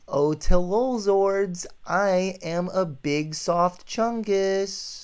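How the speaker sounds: hammed-up, sing-song silliness; goofy demo line. Shown as a demonstration. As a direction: stretch it out high and goofy. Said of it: "do this line. Say".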